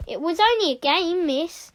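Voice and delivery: put-on slightly squeaky, pleading child; squeaking. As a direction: squeak an excuse to teacher. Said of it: "squeaked Bertie".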